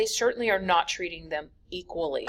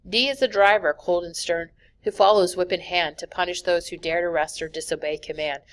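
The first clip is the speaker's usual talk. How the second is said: steady rhythmic verse reading; poem reading. Acted. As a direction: read it like a rhyming poem. Reads an alphabet poem aloud.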